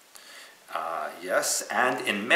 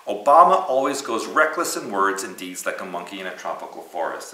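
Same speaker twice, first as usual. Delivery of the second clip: mock Korean accent; 6 dB louder than usual. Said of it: "so much more funny with Korean".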